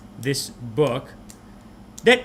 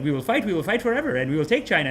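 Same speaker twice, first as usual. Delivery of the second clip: mock defiant war cry; 3 semitones higher than usual. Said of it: "They talk like that".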